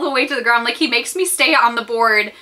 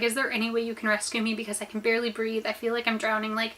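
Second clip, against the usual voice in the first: softer, understated retold plea; desperate prayer; 7 dB quieter than usual. Drowning swimmer praying to God, subdued desperation. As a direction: plead quietly, worn out and near giving up. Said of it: "I was praying to God".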